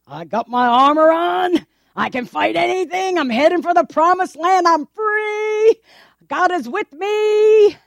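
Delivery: boastful marchers. Acted. Voicing brave marchers.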